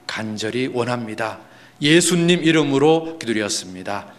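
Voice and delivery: earnest public prayer, measured and firm; closing prayer. Real, not acted. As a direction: lead the congregation in a sincere petition.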